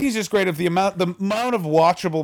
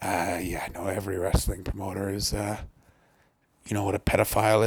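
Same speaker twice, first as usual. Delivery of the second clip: Roddy Piper impression; 8 semitones lower, 6 dB quieter than usual. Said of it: "he was just like".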